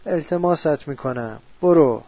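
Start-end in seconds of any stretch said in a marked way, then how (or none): 1.6-2.0 one loud "برو" after pleading; sudden shout. Acted. After begging the tormenting figure, a loud shout to go. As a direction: burst out the word loud.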